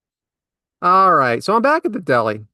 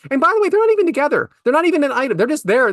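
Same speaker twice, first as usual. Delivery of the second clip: incredulous aside; 9 semitones higher, faster than usual. Real, not acted. Incredulous aside about couple.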